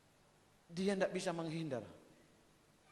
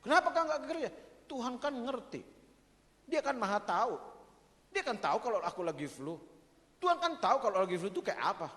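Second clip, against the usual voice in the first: mock excuse; 5 semitones higher than usual. Acted excuse for missing church.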